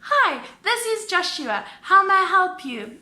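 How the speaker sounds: high, loud customer-service greeting; imitated phone agent. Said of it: "And Joshua goes".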